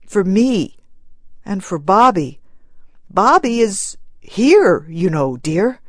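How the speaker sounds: husband pleading with his wife to stop mourning; gentle pleading. Acted. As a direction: reason with her tenderly. Husband comforting grieving wife.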